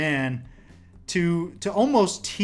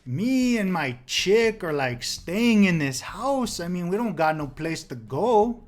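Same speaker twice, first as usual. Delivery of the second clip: laid-back squatter; 4 semitones higher than usual. Retold or imitated. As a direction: drag it out like a chill burnout. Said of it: "The guy's like".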